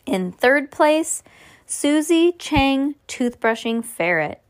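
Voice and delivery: slow, drawn-out prize announcement; suspenseful prize-giving delivery; contest announcer. A narrator's reading.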